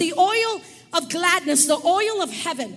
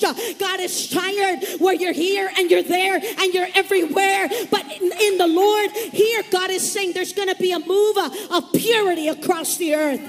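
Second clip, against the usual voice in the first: preaching loud; 3 dB louder than usual. Real, not acted. Preacher building to a climax.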